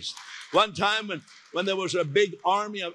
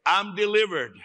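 declaring; 4 semitones higher, 3 dB louder than usual. Shown as a demonstration.

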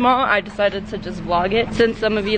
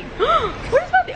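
high gasping call, drawn out; gasping, high, slow; slower than usual. Real, not acted. Gasps, calls for missing friend.

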